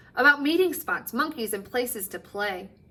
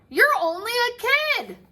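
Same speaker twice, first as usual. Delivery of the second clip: higher, sneering clerk; dismissive clerk; 12 semitones higher, 4 dB louder than usual. Acted. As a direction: talk down to a kid.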